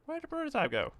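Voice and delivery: sudden high-pitched puzzled question; startled, voice jumps up; surprised. Real, not acted. Tank suddenly missing.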